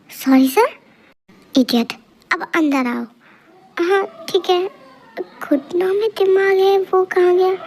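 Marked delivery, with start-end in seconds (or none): 3.8-7.5 whiny, tearful echo of the teacher's words; mock the teacher's line as if about to cry; whimpering mimicry. Student whiningly parrots the teacher's घुटनों में दिमाग है.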